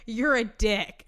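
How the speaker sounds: mean it as an insult. Shown as a demonstration. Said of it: "or it can be, like".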